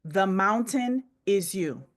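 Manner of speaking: slowly spaced book title, pause before "Is You"; slow for note-taking. Real, not acted. Coach repeats a title for people writing it down, slowly. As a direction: give each part of "The Mountain Is You" time. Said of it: "Are you writing it down?".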